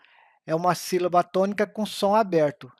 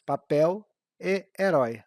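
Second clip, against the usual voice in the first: normal talking voice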